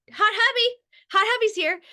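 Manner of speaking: high, loud teasing call; playful calling out. Real, not acted. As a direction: sing out to your husband. Calls out to her husband.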